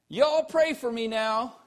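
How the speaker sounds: a light Southern drawl, called out; child calling out in a gentle Southern accent. Retold or imitated. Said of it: "crying out in a charming Southern accent".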